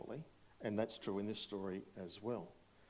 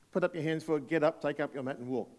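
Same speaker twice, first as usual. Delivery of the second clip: rallying the vote; 5 semitones higher, 7 dB louder than usual. Real, not acted. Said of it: "Let's do a vote".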